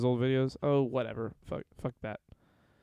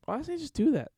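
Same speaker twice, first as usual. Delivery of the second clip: exasperated plea; 13 semitones higher, faster than usual. Real, not acted. Pleading over the missed old show.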